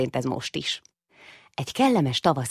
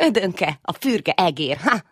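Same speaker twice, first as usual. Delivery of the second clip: teasing laugh; 4 semitones higher, 4 dB louder, slower than usual. Acted. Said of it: "nevetett Lali".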